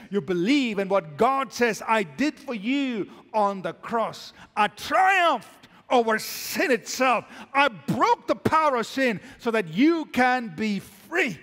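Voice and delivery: emphatic sermon building to a triumphant peak; forceful preaching. Real, not acted. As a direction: proclaim it to the whole church.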